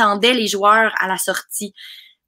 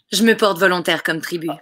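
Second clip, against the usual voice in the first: dubbed film line; 3 semitones lower than usual. Shown as a demonstration. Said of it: "je veux t'entendre redire la phrase".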